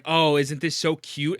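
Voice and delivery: slow, sugary mock cuteness; fake-gush over it like a fan; mocking sweet voice. Mocking creators who retweet it, in a slow sugary voice.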